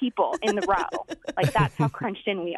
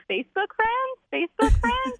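much higher, hopeful, rising asks; eager teen boy; 12 semitones higher than usual. Retold or imitated. Nineteen-year-old local begging to connect, high and eager. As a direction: play a giddy kid angling for friendship.

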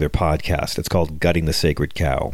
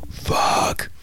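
unvoiced, drawn-out mock curse under the breath; breathy, put-on exasperated curse; hushed Trump curse. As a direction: imitate a barely audible swear. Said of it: "turn up the volume, you'll hear him go".

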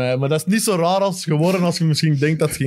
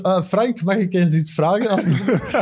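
higher, laughing, shy fan's plea; timid fan asking; 4 semitones higher than usual. Retold or imitated. Fan asking coach Frank a favour, nervous higher plea.

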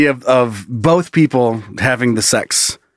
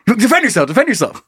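mock battle cry; 6 semitones higher, faster than usual. Mock LARP sword fight.

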